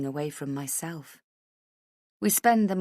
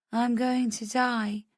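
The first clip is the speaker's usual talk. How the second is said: matter-of-fact murmur; 7 semitones higher, slower than usual. A narrator's reading. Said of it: "I murmur, matter-of-factly".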